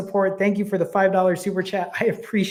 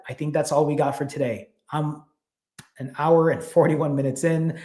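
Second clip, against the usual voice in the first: out of breath. Real, not acted. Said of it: "I'm a little out of breath".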